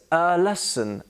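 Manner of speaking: "a" said as "uh" before lesson; measured teacher demo, "a" as "uh"; weak neutral vowel on "a"; schwa in A. Shown as a demonstration. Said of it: "whenever we put it in a word".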